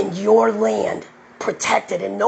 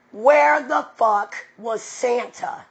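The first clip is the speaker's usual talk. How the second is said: WHERE stressed, said slow and louder; slow, deliberate repeat; 3 semitones higher, 4 dB louder, slower than usual. Real, not acted. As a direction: drag it out to make the point land. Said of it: "I like to ask questions".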